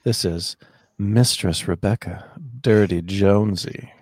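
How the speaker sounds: slow creaky fry on the read; vocal fry. Real, not acted. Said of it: "little vocal fry there".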